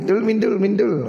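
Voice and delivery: high calling voice, drawn across the room; calling someone over; calling out a name. Retold or imitated. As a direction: call her name from a distance.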